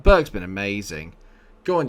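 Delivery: ordinary delivery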